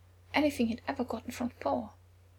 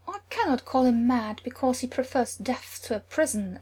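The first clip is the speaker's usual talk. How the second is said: caustic; 3 semitones higher, 5 dB louder than usual. Acted. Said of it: "Amordin said caustically".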